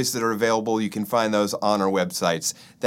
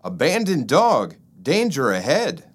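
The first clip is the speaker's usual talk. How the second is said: alarm call; 4 semitones higher, 3 dB louder than usual. Acted. Tick shouting warning while fleeing.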